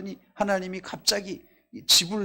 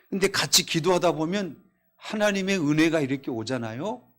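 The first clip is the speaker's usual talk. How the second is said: ordinary delivery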